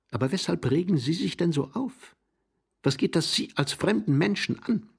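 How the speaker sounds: high-pitched indignant questioning; flustered, quarrelsome retort; agitated challenge. Acted. Quarrel, challenging the other's interest.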